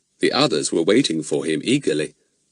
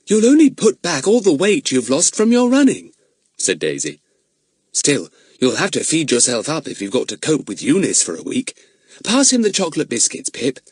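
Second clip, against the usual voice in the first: put-on high, louder girlish teasing; 7 semitones higher, 3 dB louder than usual. A narrator's reading. Daisy teases Fatty and feeds him, a higher voice. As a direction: tease him kindly as a girl.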